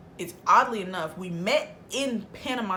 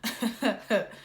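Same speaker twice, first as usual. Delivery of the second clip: imitated half laugh; 2 semitones higher than usual. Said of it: "is still kinda half laughing".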